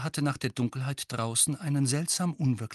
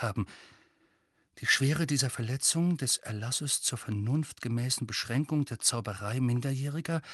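measured, impersonal official reading; bureaucratic, even-toned letter voice; formal letter reading. Acted. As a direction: read out an official notice dispassionately.

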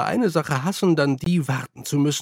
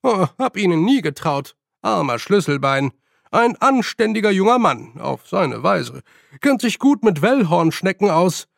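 zerstreuter alter Professor; 4 semitones higher, 4 dB louder than usual. Acted.

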